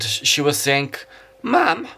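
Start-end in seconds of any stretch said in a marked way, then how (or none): 1.4-1.9 attempted English accent. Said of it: "steal the English accent so better".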